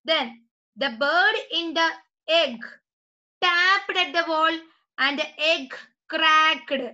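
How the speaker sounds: slow, spaced-out classroom reading; story read-aloud. Acted. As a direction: read it slowly to the class, phrase by phrase. (കുട്ടികൾക്കായി പതുക്കെ കഥ വായിക്കുന്നു)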